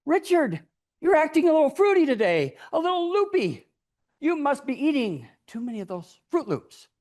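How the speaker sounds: a hint of a teacher ribbing a silly boy; teacher scolding. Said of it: "And my teacher said".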